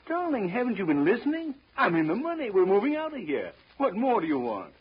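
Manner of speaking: high, loud, exuberant; elated. Acted. Husband boasts to wife he's in the money, elated. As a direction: crow about the win.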